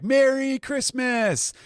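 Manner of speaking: high, stretched-out cheer; cheery crew toast. Retold or imitated. Crew toasting Christmas, hammed-up cheery high voice. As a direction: sing out the toast like a happy crew.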